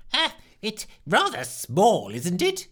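a drawn-out worried moan. Acted. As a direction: moan about how small it is. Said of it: "he moaned".

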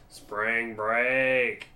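lightly imitated drawl, drawn-out twangy "sprang break"; James Franco. Film fan imitating an actor's repeated line, lightly drawled impression. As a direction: stretch both words in a mild mock movie-character drawl. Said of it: "James Franco goes".

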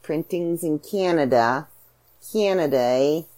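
"Canada" with a Canadian vowel, drawn out; slow, Canadian-accented "Printings in Canada". Shown as a demonstration. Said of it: "there's my Canadian accent for you".

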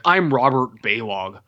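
slow mock name drop; stilted introduction. Meeting a stranger and dropping a name, mock stilted. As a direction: announce your name unnaturally, parodying bad dialogue. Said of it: "unnatural way to talk".

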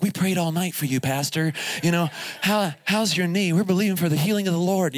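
a hint of earnest young student; mock sweet kid checking on pastor; young camp kid voice. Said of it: "why am I doing this voice and this character".

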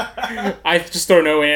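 laughing. Real, not acted. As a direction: laugh at your own foolishness as you say it. Repeats it, laughing this time.

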